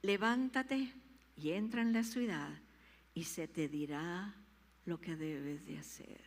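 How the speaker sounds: mild authoritative command; the Lord commanding. Acted. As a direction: rouse him gently. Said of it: "el Señor le dijo". (el Señor ordena con suavidad)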